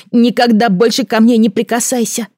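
high, loud hateful cry; furious child. A narrator's reading. Son screaming at his mother not to touch him. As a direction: throw it at her with all hate.

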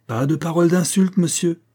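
high-pitched, firm reprimand; indignant rebuke. A narrator's reading. Niece forbidding insults against the tutor, indignant rebuke.

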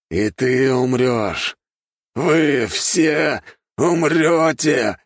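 very slow, loud seething threat; the noble hissing a final threat at everyone; through gritted teeth. A narrator's reading. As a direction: grind out the death promise. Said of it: "скрипя зубами, произнёс".

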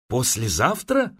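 ordinary delivery

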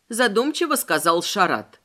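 usual speaking voice

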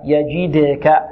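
يجدك with the د bounced, echoing briefly; qalqalah on dal. Shown as a demonstration. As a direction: bounce the د in يجدك without adding a vowel. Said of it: "وبعدها الدال مقلقلة". (قلقلة الدال في يجدك)

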